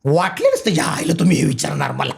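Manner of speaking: a light take on a veteran comic actor; Ashok Mama. Retold or imitated. Answering the host's dialogue request, lightly voicing the old comedian. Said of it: "असं अशोक मामा असं बोलतात".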